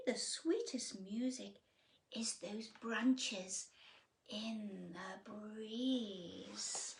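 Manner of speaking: fading into a slow whisper; soothing hush. Acted. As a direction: lull the listener into the breeze. Cricket speaks of sweet music.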